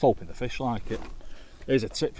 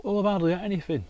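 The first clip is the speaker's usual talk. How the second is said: patient's whiny reply; 10 semitones higher, 5 dB louder, faster than usual. Retold or imitated. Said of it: "And she'll go".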